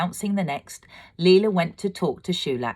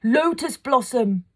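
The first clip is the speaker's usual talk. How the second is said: high, slow call of the name; crying out; 10 semitones higher, 4 dB louder than usual. A narrator's reading. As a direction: call out her name with joy. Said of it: "and cried".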